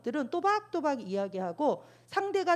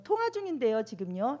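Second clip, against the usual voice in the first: curt; 2 semitones higher than usual. Shown as a demonstration. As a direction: cut the caller off curtly. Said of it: "이러지 말고". (퉁명스럽게 통화 중이라고)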